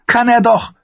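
put-on high, bold young wildling woman; spirited young woman, teasing; Ygritte voice. Ygritte retorts.

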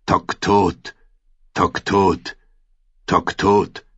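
evenly spaced, tolling word pairs; drumbeat. A narrator's reading. Drum keeps beating in her head, measured toll. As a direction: beat out the words like a drum. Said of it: "die Trommel schlug weiter".

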